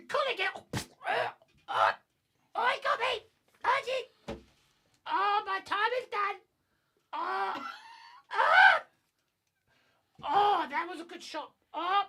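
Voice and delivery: high, loud hammed-up dying cries; slowly collapsing. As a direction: overact a slow dramatic death. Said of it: "Academy Award nomination for Best Death Scene".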